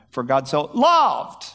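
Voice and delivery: slow, with loved leaned on and falling; stress on LOVED. Shown as a demonstration. Preacher demonstrating a Bible exercise, stress on LOVED. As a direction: dwell on the word loved. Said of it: "just emphasize ten key places in it".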